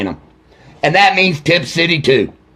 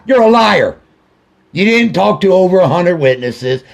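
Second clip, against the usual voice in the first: angry shout; 2 semitones higher than usual. Real, not acted. Father calling out the sheriff, shouting angrily. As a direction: throw the word liar at him.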